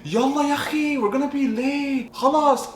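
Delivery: high, loud imitation of the guys on the ferry; young Arab guys. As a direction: mimic their fast Arabic chatter. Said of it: "I heard them say".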